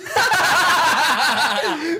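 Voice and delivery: high, loud cackle at the punchline; big burst of laughter. Real, not acted. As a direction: crack up hard, loud and high. Cracking up at his own punchline.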